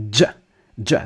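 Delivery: hard "j" with a d before it; explosive English j. Shown as a demonstration. Teacher showing how English says it, explosive "j" with a d. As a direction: pop the "j" as English "dj". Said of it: "it's not explosive like it is in English".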